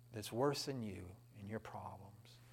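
usual speaking voice

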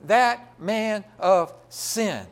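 drawn-out, deliberate phrase; slow and solemn for the congregation to ponder; slow, weighty emphasis. Shown as a demonstration. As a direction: let each word land slowly. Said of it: "Just get a handle on that for a minute".

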